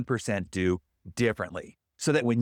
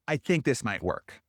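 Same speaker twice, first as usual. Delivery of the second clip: hedging. Shown as a demonstration. Coach showing a client the hedge to avoid, tentative. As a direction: let doubt creep into "I think". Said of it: "instead of".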